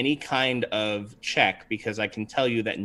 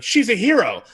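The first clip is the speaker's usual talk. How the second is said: cheering crowd; 9 semitones higher, 6 dB louder than usual. Acted. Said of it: "They're like".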